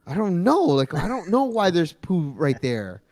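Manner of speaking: high, protesting retold reply; mock defensive. Accused partner answering the toilet complaint, mock defensive. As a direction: plead ignorance, stretching the words out.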